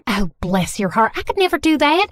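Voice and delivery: put-on thick Southern mom accent; gushing Southern accent, apologetic and sweet. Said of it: "speaking in a thick Southern accent".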